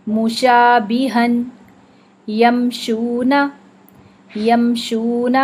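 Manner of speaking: very slow, lips pressed on م in میدادن and یمشون; Quranic recitation. Shown as a demonstration. Teacher reciting examples of م for repetition. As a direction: recite each word twice, pressing the lips on م. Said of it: "میم کو دیکھیے".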